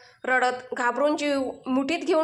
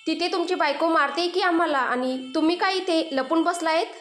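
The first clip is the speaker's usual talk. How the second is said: pleading complaint; 3 semitones higher than usual. Acted. Boys pleading with uncle.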